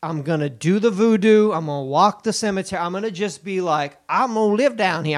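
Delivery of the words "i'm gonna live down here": lightly hammed-up New Orleans talk; put-on New Orleans accent. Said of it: "I'm gonna talk like that".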